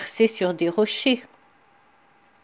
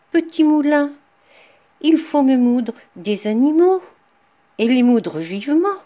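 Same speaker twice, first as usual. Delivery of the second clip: loud command; 4 semitones higher, 3 dB louder than usual. Acted. Woodcutter commands the mill again.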